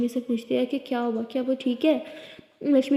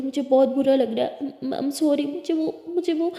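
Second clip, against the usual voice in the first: panicking; 3 semitones higher than usual. Acted. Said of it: "तो लिली बहुत panic करने लगती है".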